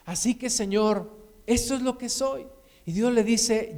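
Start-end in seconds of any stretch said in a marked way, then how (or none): 0.1-2.5 resigned close of a prayer; earnest acted admission, less forceful; heartfelt confession. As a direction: offer yourself up to God, easing off. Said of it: "voy a dejar un poquito mi corazón que hable".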